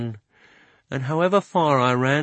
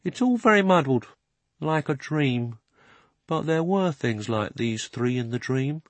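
slow, dreamy horse voice; 4 semitones higher than usual. Acted. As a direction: ponder it slowly like half-remembering. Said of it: "said Strawberry very slowly".

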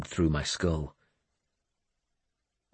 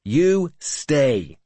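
loud, high, sharp command; sharp order; 8 semitones higher, 5 dB louder than usual. A narrator's reading. Finan orders the lord's son to stay, sharply. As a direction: order him firmly to stay put. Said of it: "Finan ordered him sharply".

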